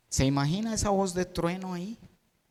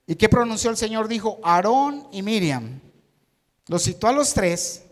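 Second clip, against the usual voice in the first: preaching emphasis; 4 semitones higher, 7 dB louder than usual. Acted. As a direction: proclaim it to the church. Predicador enfatiza el llamado. (predicación enfática y fuerte)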